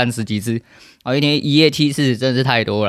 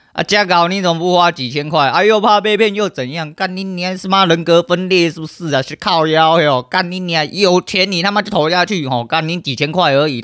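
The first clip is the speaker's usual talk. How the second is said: angry rant; 6 semitones higher than usual. Real, not acted. Streamer furious at timid viewers, yelling curses high. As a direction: tear into the viewers, spitting curses.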